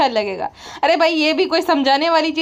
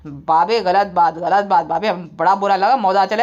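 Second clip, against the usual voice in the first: lowered sulking voice; lightly voiced sulky brother-in-law; 7 semitones lower than usual. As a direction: protest in a deep put-upon whine. Voicing the aggrieved brother-in-law.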